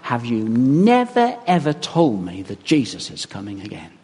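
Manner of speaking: drawn-out lament, slow; lightly voiced pleading grandma. Grandma asking the minister why he never told her, slowly pleading. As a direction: plead slowly, a touch of mock grief. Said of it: "she said".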